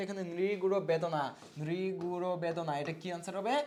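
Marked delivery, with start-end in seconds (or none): 1.6-2.7 teacher stretching the answer syllable by syllable; slow, deliberate repeat for students; slow dictation. Shown as a demonstration. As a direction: draw "নৃগুড় বেদনা" out slowly.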